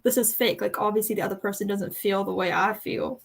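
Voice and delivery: light southern country twang, mostly in her own voice; country accent. Acted. Quoting a fake-dating character, in light country twang. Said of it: "I like how you went country there".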